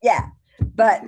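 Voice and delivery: choked up, barely getting words out; real tears. Real, not acted. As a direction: voice breaking into real crying. Reliving the moment, voice cracks.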